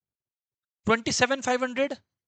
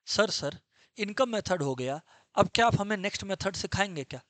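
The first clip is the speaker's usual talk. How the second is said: student voice. Acted. Student asking the teacher for the next method, lightly voiced.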